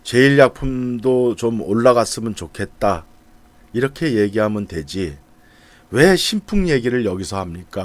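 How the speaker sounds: lightly acted online grumbling; mildly annoyed shareholder. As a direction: imitate a peeved shareholder's gripe. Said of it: "어떤 주주가 짜증내는 글".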